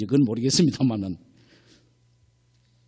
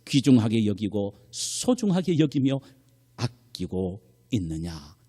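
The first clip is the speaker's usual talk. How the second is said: slow down and fade into a grave demand; the Lord questioning; 4 semitones lower than usual. Retold or imitated. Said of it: "이렇게 주님은 물으십니다". (느리고 낮게 잦아드는 주님의 물음)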